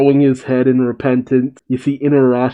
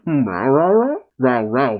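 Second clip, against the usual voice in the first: mock laugh. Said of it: "Is that his laugh?".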